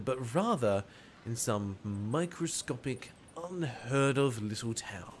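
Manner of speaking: measured, deliberate spy-tale reading; story narration. A narrator's reading. Spy recounts arriving in a little town, story narration. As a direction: narrate with pauses for suspense. Reads the game's narration aloud.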